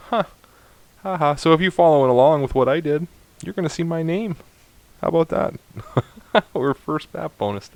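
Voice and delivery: high, giddy and gleeful; delighted, loud bursts of triumph; real excitement. Real, not acted. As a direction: brag happily, pitched well up with a laugh. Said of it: "sorry, I'm excited".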